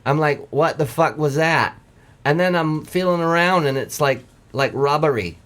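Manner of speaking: lightly voiced Mainer lobsterman telling his tale; Maine accent. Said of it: "from a Mainer perspective".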